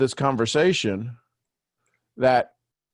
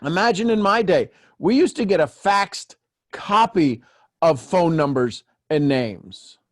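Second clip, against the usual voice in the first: high, slow grandpa voice; old-timer voice; 4 semitones higher than usual. Pretend. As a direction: tell it like an old-timer reminiscing. Jokes about the old days.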